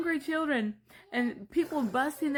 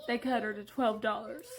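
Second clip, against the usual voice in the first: crying; 3 semitones lower than usual. Real, not acted. Crying over the mother's story.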